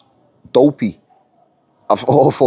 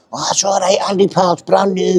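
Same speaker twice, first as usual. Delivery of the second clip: higher, wimpy little man imitation; mock wimpy voice; 6 semitones higher than usual. Steward placating Andy in the workroom, mock wimpy. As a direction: put on a wimpy, higher-pitched voice to mock him. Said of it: "That's how he says it, you know, a little fucking wimpy".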